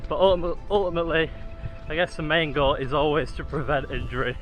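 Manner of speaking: talking mid-run, steady stride; while jogging. Real, not acted. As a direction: speak while jogging along. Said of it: "going along pretty nicely now".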